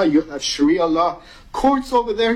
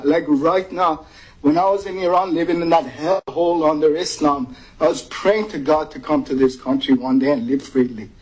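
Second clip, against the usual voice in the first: tearful. Real, not acted. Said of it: "but I'm, like, crying".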